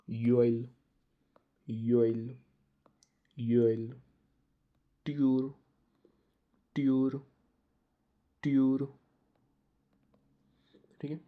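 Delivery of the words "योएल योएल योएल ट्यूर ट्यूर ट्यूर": each word called out loud and clear; loud classroom drill; loud drill repetition. Shown as a demonstration. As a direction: project every word for the class to repeat. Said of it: "मेरे साथ आपको pronounce करना है".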